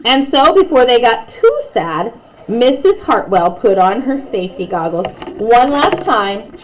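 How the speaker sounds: lively read-aloud storytelling; story narration. A narrator's reading. Narrator reading a class story to kids, lively. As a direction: read it like a bedtime picture book.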